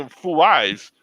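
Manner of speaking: "Fouais" lightly mimicked as foo-WAHZ; Jamaican cook's pronunciation. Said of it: "there was a Jamaican guy".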